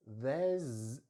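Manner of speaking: "there's" ending in a buzzing Z; careful "there's" with final Z; Z sound. Shown as a demonstration. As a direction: draw out the voiced Z in "there's". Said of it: "and it's a Z sound".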